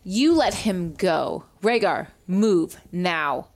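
slow, restrained commanding shout; acted shout. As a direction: order them firmly, one word at a time. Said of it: "well, I shout".

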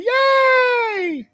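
high shouted cheer. Acted. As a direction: whoop it up. Cheering the host.

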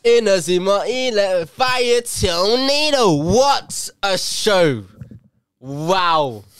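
high, loud, stretched-out hype yell; excited anime shout. Real, not acted. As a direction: shout the move name like an anime hero. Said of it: "This guy got excited".

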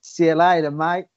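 Australian-tinged sign-off; attempted English, sounds Australian. Shown as a demonstration. Co-host signs off on request, accidental Australian accent. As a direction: try English but slip into Australian. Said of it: "Australian again".

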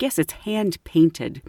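slow, lightly pompous shopkeeper; highbrow man. Retold or imitated. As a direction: stretch it with a touch of snobbery. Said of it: "Let's say that, highbrow man".

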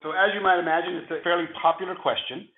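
hoarse, flu-roughened voice; gravelly voice. Real, not acted. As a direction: talk through a rough, sick throat. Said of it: "my gravelly voice today".

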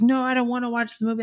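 pouty refusal. Retold or imitated. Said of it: "she was like".

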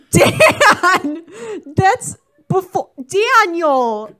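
high, loud, laughing outcry; laughing disbelief. Real, not acted. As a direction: scold a friend through helpless laughter. Teasing co-host about being ancient.

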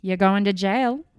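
loud threats. Retold or imitated. Michael threatening.

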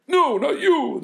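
very high, loud pleading voice; pitying neighbor. Acted. Neighbors stopping the orphan girl, high and pitying. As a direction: cry it out in pity. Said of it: "the neighbors pitied her".

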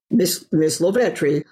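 imitating a low-voiced esteemed professor; lightly voiced baritone teacher; rich low baritone. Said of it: "he had this rich, low baritone voice".

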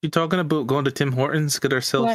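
playful put-on Canadian accent; lightly hammed-up Canadian accent; mock Canadian accent. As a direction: banter like a stereotypical Canadian. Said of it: "throw that accent on words".

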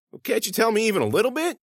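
high-pitched, wheedling plea; pleading. Acted. Student begs vice principal for a hint, pleading.

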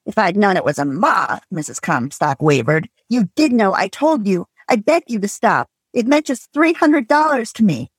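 reading a novel aloud with light character voices; story reading. Acted. Host reading a novel aloud to co-hosts, story narration. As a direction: read the scene to your co-hosts, lightly dramatized.

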